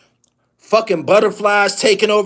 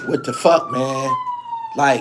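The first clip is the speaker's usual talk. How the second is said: way higher, slowed, pleading yell; pleading yell at coach. Pretend. Point guard on the court yelling to his coach, much higher and pleading. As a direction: cry out to the coach in frustration.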